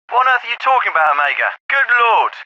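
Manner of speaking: high, exasperated disbelief; baffled indignation. Acted. Officer to corporal over odd radio name, indignant disbelief. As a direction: react as if the caller talks nonsense.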